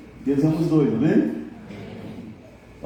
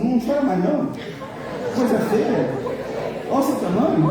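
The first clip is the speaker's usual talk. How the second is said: a light, higher cooing to a crybaby; mock scolding a child; 7 semitones higher than usual. Congregation tells their neighbour to stop crying, in mock baby scolding. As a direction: tease them like a little kid who won't stop crying.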